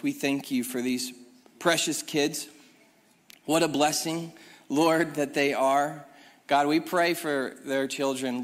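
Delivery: measured, earnest public prayer; congregational prayer. Acted. Pastor blessing a new member family, earnest prayer. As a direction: pray aloud with pauses between phrases.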